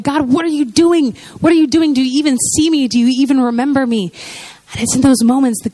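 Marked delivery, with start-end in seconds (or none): 0.0-4.1 higher, pleading questions to God; freaking out. Retold or imitated. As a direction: cry out to God in mock panic. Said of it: "I'm just freaking out".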